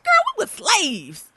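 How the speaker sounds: slow, high, drawn out; slow admission. Retold or imitated. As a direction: confess it with a laugh. Retold confession.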